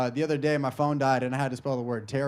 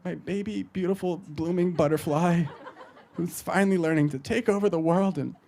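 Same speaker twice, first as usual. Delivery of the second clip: lightly voiced doting mother, stretched phrases; gushing mom imitation. Mom writing son's birthday card, mock gushing. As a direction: coo it with mock pride. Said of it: "my mom was always way too motivational".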